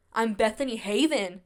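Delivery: firm, proud name with a falling end; bold. Shown as a demonstration. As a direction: own your name, stand tall. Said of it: "more bold".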